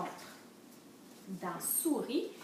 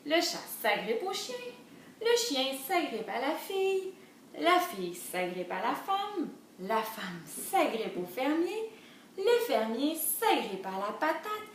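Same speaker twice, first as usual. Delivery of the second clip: measured, sing-song storybook reading; lilting story narration; children's storytelling; 4 semitones higher, 4 dB louder, slower than usual. A narrator's reading. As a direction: read the chain to little ones.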